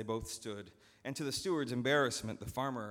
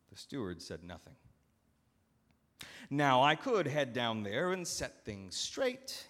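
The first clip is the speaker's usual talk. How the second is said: higher, dry sarcastic master; ironic master; 4 semitones higher, 3 dB louder than usual. Acted. Master pacing round the steward, dryly sarcastic. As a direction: needle him with mock praise.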